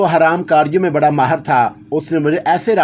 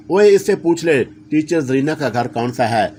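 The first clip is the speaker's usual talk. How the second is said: plain reading voice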